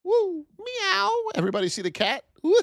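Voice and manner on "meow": high playful meowing like a cat; squeaky mock cat meow. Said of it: "It could be a cat, too".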